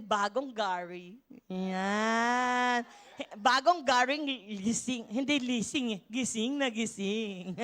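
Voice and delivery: low chuckling wordplay; laughing joke. Real, not acted. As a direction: play the pun with a chuckle. Joking aside, laughing.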